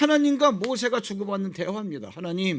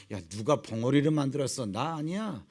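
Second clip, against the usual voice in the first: low God rebuke; 8 semitones lower, 4 dB quieter than usual. Acted. God rebukes Moses' excuse.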